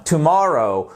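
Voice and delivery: "tomorrow" stressed on its middle syllable; teacher's model "tomorrow", accent on syllable two; stress on second syllable. Shown as a demonstration. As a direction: punch the MOR of "tomorrow", then fall. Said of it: "deuxième syllabe".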